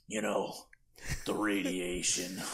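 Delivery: hushed, slow, low confiding; conspiratorial hush. Retold or imitated. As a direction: lean in and share a secret slowly. Retold old man's secret.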